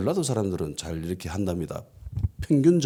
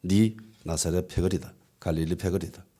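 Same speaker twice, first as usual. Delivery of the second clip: unhurried, sure of the charge; confident accusation; 3 semitones lower, 4 dB quieter than usual. Acted. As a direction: state it with quiet certainty. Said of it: "확신에 차서 말합니다".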